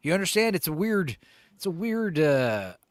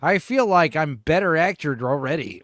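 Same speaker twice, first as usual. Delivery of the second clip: sarcastic; 5 dB louder than usual. Pretend. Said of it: "I learned so much from this video".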